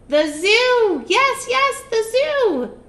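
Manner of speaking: high, loud, thrilled witch voice; excited witch. Acted. Witch thrilled at her circus idea. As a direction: squeal it with glee.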